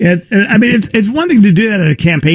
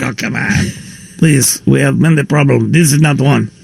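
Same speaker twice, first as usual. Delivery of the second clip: mock Russian accent; 3 semitones lower than usual. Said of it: "Hey, that was a Russian accent".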